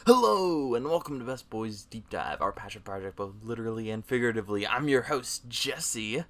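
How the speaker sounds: slick, loud pitchman intro; used car salesman. Acted. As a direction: sell it like a car lot host. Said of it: "You sound like a used car salesman".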